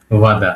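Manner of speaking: "ভাদা" low, v at the start, falling at the end; V sound. Shown as a demonstration. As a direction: model "ভাদা" with a clear v, not b. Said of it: "ভয়ের মতো উচ্চারণ।".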